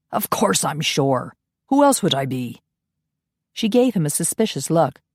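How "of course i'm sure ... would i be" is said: testy Scot. Acted. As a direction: answer with weary impatience. Ian annoyed.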